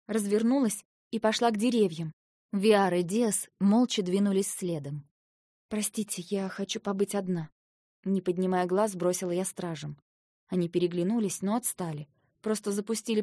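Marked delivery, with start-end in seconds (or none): 5.7-7.5 soft, drained request; weary, quiet. Acted. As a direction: ask quietly to be left alone after a row. Exhausted, asks guards to leave her. (устало, тихо)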